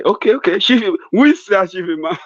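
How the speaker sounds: high, excited muddled questions; confused old man. Pretend. Confused Buhari questioning his aide about the Imam. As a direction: lift the pitch, forgetful and eager.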